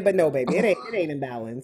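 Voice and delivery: sassy auntie setting someone straight, a touch fast. Acted. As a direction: talk like a know-it-all auntie, firm and quick. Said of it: "I hate to put my auntie voice on it".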